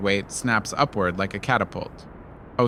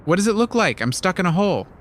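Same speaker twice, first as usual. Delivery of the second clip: irritated leopard; 7 semitones higher, faster than usual. A narrator's reading. Furious trapped leopard answers.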